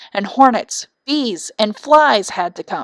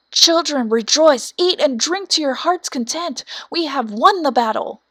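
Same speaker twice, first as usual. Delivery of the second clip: higher, brighter victory call; joyful cry; 6 semitones higher than usual. A narrator's reading. King and queen cry to their children, joyful and higher. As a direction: announce the win with joy. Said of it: "flew home to their children and cried".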